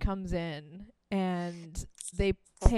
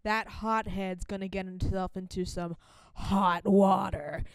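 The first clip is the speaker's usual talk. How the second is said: quoting a guitarist; 2 semitones lower than usual. Retold or imitated. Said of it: "his line in particular".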